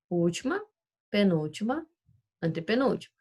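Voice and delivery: Última, penúltima, antepenúltima, each said separately; name each syllable position in turn; teacher listing syllable positions; counting positions. Shown as a demonstration. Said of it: "a gente vai contar".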